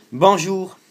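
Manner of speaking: high, loud greeting to the phone; loud to Siri. Real, not acted. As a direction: speak up clearly for the voice assistant. Speaking a command to Siri.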